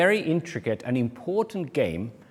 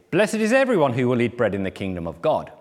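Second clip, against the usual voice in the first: lightly voiced piety, opening raised then settling; a touch of sanctimonious declaration; mildly pious; 3 semitones lower than usual. Pharisee reclining at Jesus' table makes a remark, mildly pious. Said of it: "very piously".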